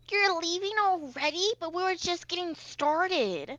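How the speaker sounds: high, sing-song little fairy; teasing fairy. Acted. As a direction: tempt him to stay, playfully. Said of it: "and she goes".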